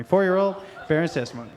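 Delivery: lightly voiced small child; fast, rushed little kid reciting; a hint of a four-year-old at the pulpit; four-year-old bearing testimony. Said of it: "my impression of a four-year-old".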